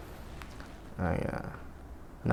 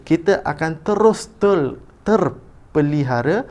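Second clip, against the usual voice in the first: higher, louder, deliberate read-aloud; expressive reading; 6 semitones higher, 6 dB louder, slower than usual. Shown as a demonstration. Teacher resumes the passage after a slip, emphatic reading. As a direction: project each word with lifted intonation. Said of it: "baca dahulu petikan dengan intonasi".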